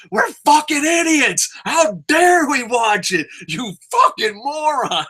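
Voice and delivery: high, slow sarcastic sneer; mocking. Kid sneering at fans who watch wrestling, high mocking. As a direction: put on a scornful voice to belittle them. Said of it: "I'd mock people".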